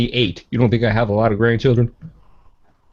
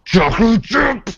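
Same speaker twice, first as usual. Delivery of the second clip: insistent; 10 semitones higher, slower than usual. Pretend. Arguing cookie names back and forth.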